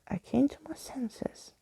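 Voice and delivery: high, soft whispered confession; a hushed, high whisper; confiding whisper. A narrator's reading. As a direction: let it slip out as a secret. Skeleton confides a realization.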